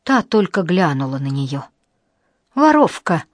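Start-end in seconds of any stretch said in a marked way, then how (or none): 2.5-3.2 high, loud "Воровка!" with falling end; loud accusation. A narrator's reading. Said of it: "громко сказала она". (громкое "Воровка!")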